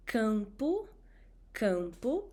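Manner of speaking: campo with nasal a before m; nasal vowel drill. Shown as a demonstration. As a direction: say campo through the nose. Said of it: "repeat after me".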